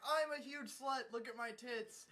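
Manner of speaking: mocking impression of a brazen girl; mocked brazen girl. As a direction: announce it like a shameless airhead. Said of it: "there's this girl, and she's like".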